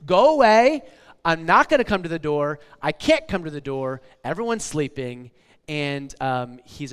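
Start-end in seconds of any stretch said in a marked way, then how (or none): 0.1-5.3 annoyed neighbor. Retold or imitated. Pastor voicing the grumpy neighbor at the door, mock annoyed. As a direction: brush off the late-night knocker, mock annoyed. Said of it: "we can tell he's annoyed just by the way he responds".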